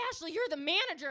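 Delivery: high, loud mock-frantic insistence; panicked plea. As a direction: plead loudly in comic panic. Employees pleading in shooting story.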